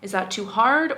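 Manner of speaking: firm, measured rebuke; calm but stern. Pretend. Walker asks catcaller to leave her in peace, calm but stern. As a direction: question them sternly, keep your composure. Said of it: "stern, but calm at the same time".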